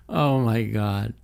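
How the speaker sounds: ordinary talk, nothing marked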